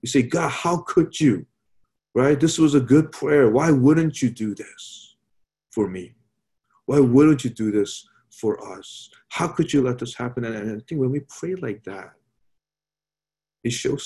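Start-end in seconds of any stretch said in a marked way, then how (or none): 0.2-10.4 slowed, mildly indignant complaint to God; a touch of aggrieved whining at God; mock upset prayer. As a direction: play the let-down believer, lightly hammed. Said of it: "we get really upset. We say".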